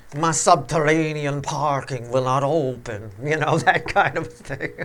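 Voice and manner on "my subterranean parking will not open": spooky, low, intoning vampire voice. Mimicking a woman's excuse when she called, in a vampire-like voice. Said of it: "She sounded like some kind of vampire".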